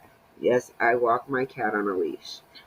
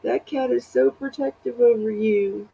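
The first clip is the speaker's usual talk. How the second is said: imitating friend; 9 semitones higher than usual. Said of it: "She's like".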